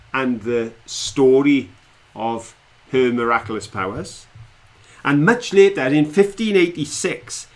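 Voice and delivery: slow, dramatic quiz question read; quiz host. Acted. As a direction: build suspense like a quizmaster. Quiz master reads question.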